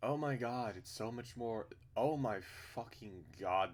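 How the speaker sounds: loud, high delight; amazed. Real, not acted. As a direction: exclaim it in awe. Reaction to the art.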